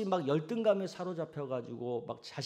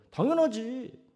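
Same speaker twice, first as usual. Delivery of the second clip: confident reply; 9 semitones higher, 4 dB louder, slower than usual. Retold or imitated. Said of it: "긍정적인 말을 하는 사람은".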